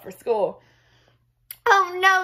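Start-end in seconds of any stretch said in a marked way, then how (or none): 1.6-2.2 high, loud cry of dismay; father realising he'll be late for work; alarmed father. Acted. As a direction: gasp it out in dismay.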